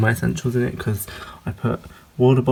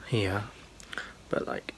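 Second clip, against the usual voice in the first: whispering; 13 dB quieter than usual. Real, not acted. Quiet aside while filming.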